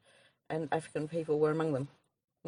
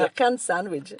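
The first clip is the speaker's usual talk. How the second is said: "Beer can" for bacon, Jamaican-Irish lilt; imitated Jamaican accent, a bit Irish; 3 semitones higher than usual. Shown as a demonstration. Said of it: "a bit Irish too, with the way you say bacon".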